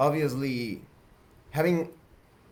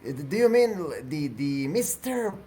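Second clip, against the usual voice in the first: higher, stammering exclamation; Arisa; 4 semitones higher than usual. Acted. Woman asks about mister weapons, confused exclaiming. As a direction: stumble over the words in raised-pitch confusion.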